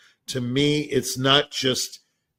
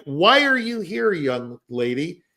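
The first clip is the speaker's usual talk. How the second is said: mock interrogation; 5 semitones higher than usual. Voicing suspicious father grilling the girl.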